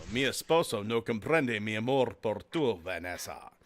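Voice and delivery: low, dramatic soap-opera Spanish; telenovela Spanish. Retold or imitated. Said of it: "telenovela Spanish".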